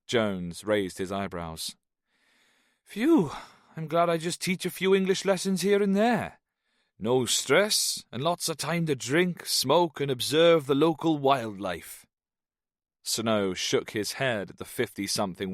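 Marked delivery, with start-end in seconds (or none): 2.8-12.1 high lilting Welsh expat; cheerful boozy Welshman, higher; Welsh man voice. Acted. Jones voiced, Welsh lilt.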